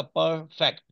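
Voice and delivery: "परफेक्ट" broken in two pieces, पर, then फेक्ट; split into two syllables. Shown as a demonstration. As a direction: say "परफेक्ट" syllable by syllable with a small gap. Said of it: "जिसके दो टुकड़े हो जाए". ("परफेक्ट" को दो टुकड़ों में तोड़कर बोलें)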